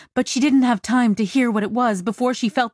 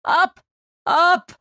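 high, urgent outcry; wild-eyed yelp of warning; frantic cry; 9 semitones higher, 3 dB louder than usual. Acted. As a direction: cry it out in desperate bursts. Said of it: "then frantically crying out".

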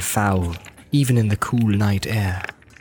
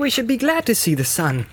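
Frodo voice; 12 semitones higher than usual. Acted. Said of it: "said Frodo".

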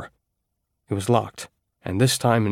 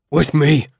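higher, louder snarled order; 6 semitones higher, 6 dB louder than usual. Acted. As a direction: snap the order at them. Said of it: "Ammit snarled".

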